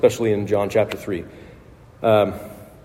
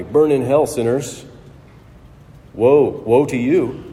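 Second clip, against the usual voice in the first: spiteful. Retold or imitated. Preacher imagining Jesus cursing sinners, mock spiteful. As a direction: sneer out the woes like a hellfire preacher.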